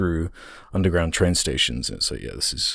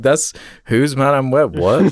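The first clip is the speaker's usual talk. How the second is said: put-on high, baffled kid voice; confused teen fan; 7 semitones higher, 4 dB louder than usual. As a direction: play a puzzled young fan. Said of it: "they'd be like".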